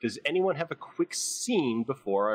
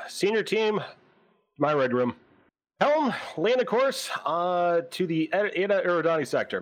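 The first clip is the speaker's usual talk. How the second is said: captain's orders; 5 semitones higher than usual. Acted. Captain giving bridge orders.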